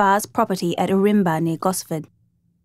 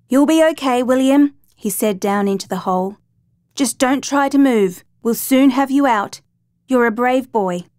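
raised, encouraging call down a well; reassuring call down; 4 semitones higher, 3 dB louder than usual. Acted. Father calling down the hole to his son, reassuring. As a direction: call down to comfort the boy.

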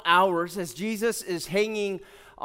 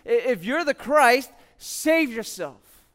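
higher, louder mock challenge; 4 semitones higher, 4 dB louder, slower than usual. Religious rulers taunt Jesus, same mocking voice. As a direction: jeer it, drawing out the ending. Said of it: "same mocking voice".

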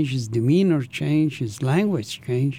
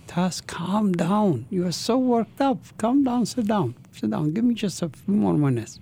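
mock yell; 5 semitones higher than usual. Friend urging an upset man to sit back down, mild mock yell. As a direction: imitate urgent yelling without real volume. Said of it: "he yelled and he said".

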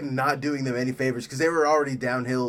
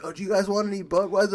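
pushy salesman; 5 semitones higher, faster than usual. Retold or imitated. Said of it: "they'll be like".

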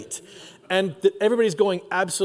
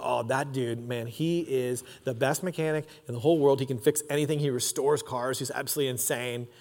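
leaned-in low aside, much softer; hushed party gossip; 5 semitones lower, 7 dB quieter than usual. Retold or imitated. Friend leaning over at the party, murmuring softly. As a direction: murmur it like gossip in someone's ear.

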